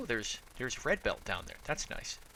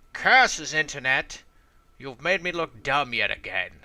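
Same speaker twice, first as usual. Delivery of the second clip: mock villain curse; 7 dB louder than usual. Mock outrage at the internet.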